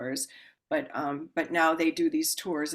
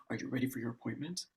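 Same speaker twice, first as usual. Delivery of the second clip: intense man; 5 semitones lower, 8 dB quieter, faster than usual. Retold or imitated.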